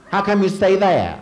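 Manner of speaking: squeaky voice jumping high and loud; high-pitched, indignant squeak at a Southerner; high mock protest. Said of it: "And I said".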